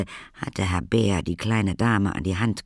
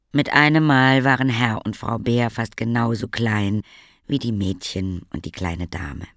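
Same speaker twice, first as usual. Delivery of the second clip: ordinary delivery, nothing marked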